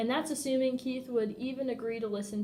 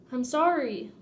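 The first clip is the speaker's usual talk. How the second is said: earnest, a little louder, pleading sorry; mean every word of it; honest, anxious apology; sincere apology; 3 semitones higher, 5 dB louder than usual. Retold or imitated. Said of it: "The most honest, sincere thing".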